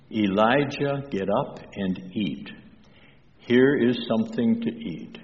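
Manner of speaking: softly voiced kindness, mildly done; gently urge, with a light touch; kindly. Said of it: "very kindly he says".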